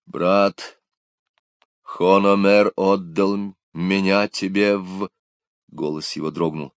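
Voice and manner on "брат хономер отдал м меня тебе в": slow, halting, faltering words; a touch of a breaking voice, stopping short; hesitant. A narrator's reading. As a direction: youth hesitantly addressing his rescuer, faltering. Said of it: "нерешительно проговорил".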